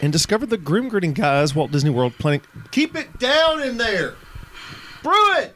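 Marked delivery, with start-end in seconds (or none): 2.7-4.1 yelling at the next room; shouting. Acted. Family noise offstage, shouting. 5.0-5.5 put-on parent yelling at the kids; high, sharp shout; scolding shout.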